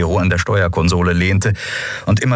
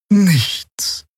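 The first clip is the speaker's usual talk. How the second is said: put-on much higher, drawn-out "Nichts" in the old healer's voice; old healer's report; 12 semitones higher than usual. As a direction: let "Nichts" hang high and slow. Xea berichtet. (hohes, langgezogenes „Nichts“ der alten Heilerin)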